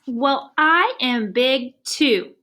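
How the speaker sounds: slow, defiant boast; slow proud elephant. Acted. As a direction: puff yourself up as you say it.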